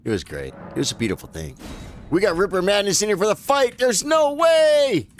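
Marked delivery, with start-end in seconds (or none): 2.1-5.1 high, loud hype at the boss; excited. Real, not acted. Gamer spotting a tough boss, excited shout. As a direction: shout it out, can't believe it.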